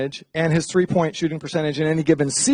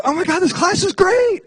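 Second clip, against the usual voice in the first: much higher, mock-thrilled; squealing mock delight; gushing; 14 semitones higher than usual. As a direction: rave about the class in a mock voice. Acted quote of an enthusiastic friend.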